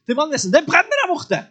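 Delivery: loud, high-pitched imitated alarm; mock alarm call. Neighbours call the fire brigade about the stable, loud and alarmed. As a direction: shout the warning like a panicked neighbour. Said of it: "som sier sånn".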